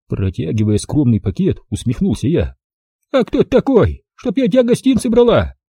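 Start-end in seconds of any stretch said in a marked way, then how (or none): 3.1-5.6 surprised. Acted. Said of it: "Удивилась бабулька".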